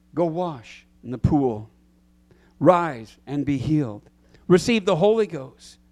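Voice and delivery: slow, loud commands; commanding Jesus. Acted. Preacher voicing Jesus commanding the sick, slow and loud. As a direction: call out each healing order slowly.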